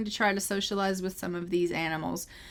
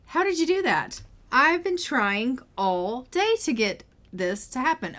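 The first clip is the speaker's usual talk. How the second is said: amazed Amaya; 4 semitones higher than usual. Acted. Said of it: "Amaya's like".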